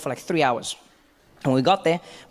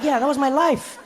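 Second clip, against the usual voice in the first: laughing disbelief; 8 semitones higher than usual. Retold or imitated. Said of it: "I'm like".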